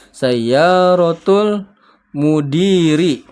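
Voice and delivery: Sayyaratul mudiri drawn out very slowly and loud; slow model reading. Shown as a demonstration. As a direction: stretch every syllable of Sayyaratul for the class. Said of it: "Silakan diikuti". (bacaan sangat lambat dan keras untuk ditirukan)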